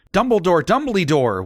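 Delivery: put-on two scared kids calling out; mock yell. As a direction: call for him up the stairs. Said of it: "we both yelled".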